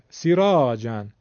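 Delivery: slow سیراجن, brief "si" and stretched "raa"; siraajan, first vowel of سیراجن short; short kasra. Shown as a demonstration. Teacher repeating the kasra example, short "si" in سیراجن. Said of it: "سین کسره داره".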